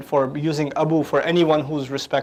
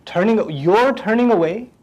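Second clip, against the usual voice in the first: slow, stunned disbelief; shocked disbelief; 3 semitones higher than usual. Shown as a demonstration. Father stunned his son turns away, slow shocked question. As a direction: drag it out in disbelief. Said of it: "this is done out of shock".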